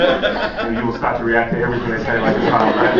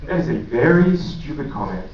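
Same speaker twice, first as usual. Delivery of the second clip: mock indignant; 3 semitones higher than usual. Defending himself to friend.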